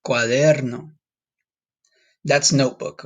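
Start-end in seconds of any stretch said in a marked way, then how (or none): 0.1-0.9 "Cuaderno" with the R rolled. Shown as a demonstration. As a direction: roll the R before the N in "Cuaderno". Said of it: "you have to roll your R".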